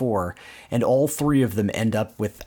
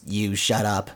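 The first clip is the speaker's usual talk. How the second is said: level, deadpan comeback; lightly imitated echoing spring; spring's echo; 3 semitones lower than usual. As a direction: throw it back in monotone. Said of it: "the echo of his voice".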